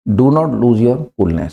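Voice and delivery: each word spaced out slowly; slow model sentence. Shown as a demonstration. Teacher to students, modelling the phrase slowly. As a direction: say it slowly so students can repeat. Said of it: "ये भी कह सकते हैं गुस्सा मत कर".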